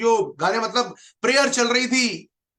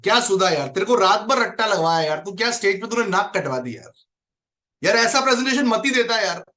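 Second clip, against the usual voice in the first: mocking friends; 2 semitones lower than usual. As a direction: tease your friend for running off the stage. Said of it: "उसके चार दोस्तों ने उसका मजाक उड़ाया".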